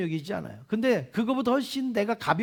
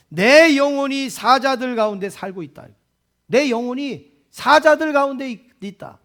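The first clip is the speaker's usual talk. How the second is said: emphatic proclamation; 3 semitones higher, 5 dB louder than usual. Acted. Preacher proclaims verse four.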